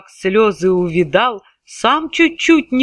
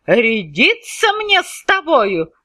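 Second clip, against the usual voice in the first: shouting tsar; 3 semitones higher than usual. Acted. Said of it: "закричал он".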